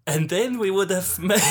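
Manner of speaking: put-on botched Italian accent; shaky Italian accent. Comic testing the accent before the scene, wobbly Italian accent. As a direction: attempt an Italian accent and miss. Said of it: "I can't do an Italian accent".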